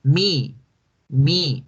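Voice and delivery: mock eager student shouting me; eager calling out. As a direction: call out "me" like a kid begging to be picked. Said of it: "se responde es".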